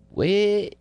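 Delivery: high startled "What?" going up a lot; puzzled yelp of "What?"; baffled what. Retold or imitated. Student baffled by a classmate's remark, high startled question. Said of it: "And I said".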